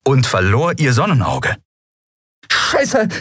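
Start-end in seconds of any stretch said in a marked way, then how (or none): 2.5-3.1 high, breathy gasp of a curse. A narrator's reading. Endriel reaching for the weapon under fire, gasping. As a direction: gasp the swear word out, pitched high. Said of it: "keuchte sie".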